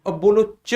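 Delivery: च held a little longer, with a slight friction; teacher contrasts च with क for the class, held long; lengthened च. Shown as a demonstration. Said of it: "देखो दोनों में अंतर देखो".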